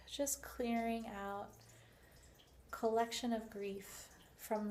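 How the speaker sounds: unhurried guiding voice with long pauses; guided meditation. Shown as a demonstration. Instructor guiding listeners through releasing grief, unhurried meditation voice. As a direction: gently talk them through the breathing, leaving space. Leads a guided breathing exercise.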